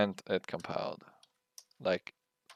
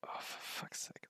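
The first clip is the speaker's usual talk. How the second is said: breath-only swear, much softer; whispered curse; 15 dB quieter than usual. Real, not acted. Coder whispering a curse at a null image. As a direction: mutter it under your breath.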